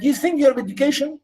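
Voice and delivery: mocking questions, quick and high, falling to a verdict; father sneering at his son's schooling. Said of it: "now he's mocking him".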